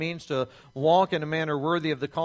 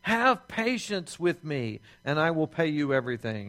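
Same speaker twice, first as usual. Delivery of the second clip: pleading. Acted.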